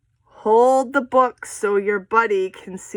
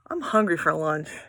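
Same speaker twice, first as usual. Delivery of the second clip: knight voice; 5 semitones lower than usual. Shown as a demonstration. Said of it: "say it in a voice to match who's talking".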